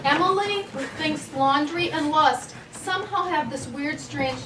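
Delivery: giggling through the words; laughing. Real, not acted. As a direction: talk while laughing. Host giggling while introducing.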